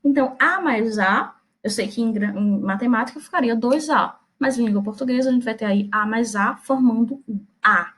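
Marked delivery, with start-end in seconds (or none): 5.3-5.3 A said as one firm, full vowel; strong A. Shown as a demonstration. Teacher showing two As fused into one, a strong A. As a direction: lean firmly on the single merged A. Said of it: "bem forte".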